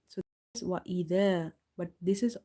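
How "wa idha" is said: idha with a thin, light dh and open front vowel; light dhal. Shown as a demonstration. Teacher contrasts the two letters, light dh. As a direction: keep the dh of idha light, tongue at the teeth. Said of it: "dal is light".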